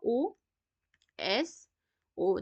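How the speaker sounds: ओएसओ stretched out very slowly, letter by letter; drawn-out mnemonic. Shown as a demonstration. Teacher quizzing class on ओएसओ, drawn out very slowly. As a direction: draw out each letter of ओएसओ. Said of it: "मैंने क्या कहा?".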